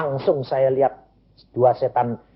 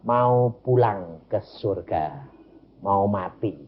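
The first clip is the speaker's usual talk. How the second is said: retold dying child; 5 semitones lower, slower than usual.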